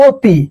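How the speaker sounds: অতি with its opening o held; vowel demo. Shown as a demonstration. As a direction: draw out the first vowel of অতি. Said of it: "অ আছে".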